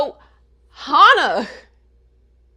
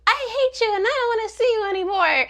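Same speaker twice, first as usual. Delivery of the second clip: hurt outburst; 11 semitones higher than usual. Retold or imitated. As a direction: act out a sister's upset rejection. Acted Hana cutting off her sister.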